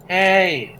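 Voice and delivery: high-pitched, drawn-out call; acted shout without full volume; calling for help. Trapped character calls through stone wall.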